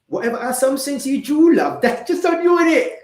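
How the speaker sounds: put-on loud, high-pitched cheeky British accent. Host blaming the viewer's assumptions, high loud British accent. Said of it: "get in my British accent for this one".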